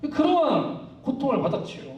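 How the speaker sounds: ordinary talk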